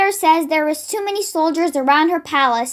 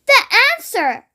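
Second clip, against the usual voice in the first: higher, eager exclamation; excited girl's cry; cried; 8 semitones higher, 3 dB louder than usual. A narrator's reading. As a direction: announce it with delight. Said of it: "cried Sophie".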